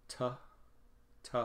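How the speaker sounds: a lone "t" with a short neutral uh; first syllable alone. Shown as a demonstration. Teacher isolating the first syllable for students, short unstressed "t" sound. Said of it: "this is the first syllable".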